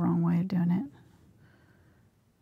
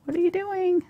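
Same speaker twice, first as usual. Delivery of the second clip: talking to a pet; 10 semitones higher than usual. Real, not acted. Talking to her cat.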